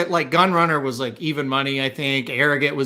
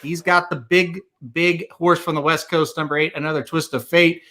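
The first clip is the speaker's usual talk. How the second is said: announcer voice. Pretend. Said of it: "channeling my inner Slim with this announcer voice".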